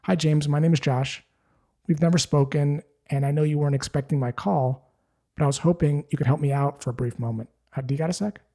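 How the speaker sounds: easy and unhurried, no pressure; a calm friendly caller asking a favour. Shown as a demonstration. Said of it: "you say in a very calm voice".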